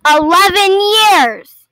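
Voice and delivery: loud, slow, stunned cry; shocked outburst. Real, not acted. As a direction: blurt it out in disbelief. Shocked at captivity length.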